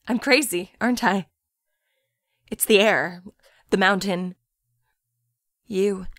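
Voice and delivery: panicked. A narrator's reading. Lori panicking, insisting she's crazy.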